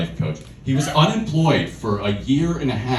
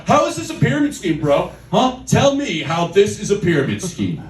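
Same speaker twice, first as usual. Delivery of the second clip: louder, higher worked-up crypto bro; fired up; 3 semitones higher, 3 dB louder than usual. Retold or imitated. The friend defending his coin, worked up and loud. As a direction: argue it's no pyramid, heated. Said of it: "He gets so fired up".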